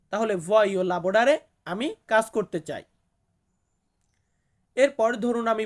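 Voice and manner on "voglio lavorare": voglio lavorare said slowly with a rise on lavorare; slow model. Shown as a demonstration. Teacher assembling the phrase slowly for learners. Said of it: "lavorare মানে হচ্ছে কাজ করা".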